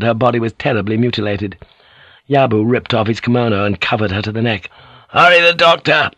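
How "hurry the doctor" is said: higher, louder urgent rasp; rasped order. A narrator's reading. Yabu demands the doctor for the wounded, rasped shout. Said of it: "he rasped".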